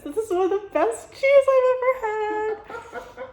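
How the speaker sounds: very high, loud thrilled squeal of praise; excited gush. Real, not acted. Vlogger just tasted the truffle cheese, high excited gush. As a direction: burst out in amazed delight, pitch way up.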